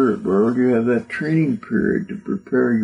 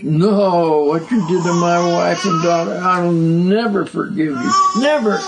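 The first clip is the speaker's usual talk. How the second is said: tearful refusal; 3 semitones higher than usual. Retold or imitated. Victim refuses Nazis' plea.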